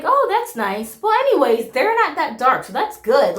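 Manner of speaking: high-pitched imitation of a breezy relative; airy mock approval. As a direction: brush it off in a lifted, pleased voice. Retold grandmother's airy, approving reply.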